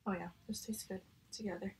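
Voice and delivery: speaking between bites; chewing while talking. Real, not acted. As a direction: mouth partly full. Seen 0: Fork of food held up; mouth moves as if still chewing.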